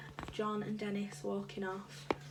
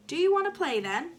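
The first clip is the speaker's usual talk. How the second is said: high, louder eager schoolboy question; 8 semitones higher, 7 dB louder than usual. A narrator's reading. Darvesh asking his friend to play football, eagerly. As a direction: ask it eagerly, pitch jumping up. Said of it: "asked Darvesh eagerly".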